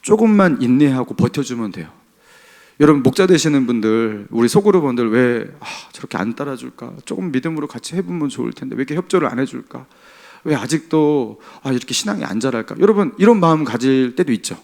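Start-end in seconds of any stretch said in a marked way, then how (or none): 4.3-12.8 softly voiced weary grumble; mild frustration. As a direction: imitate a group leader's private, quiet exasperation. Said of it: "답답할 때 있죠".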